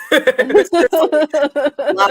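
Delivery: loud, high mock British blather; a hint of a London bloke babbling; lightly put-on British accent, teasing. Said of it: "I would even do it in a British accent".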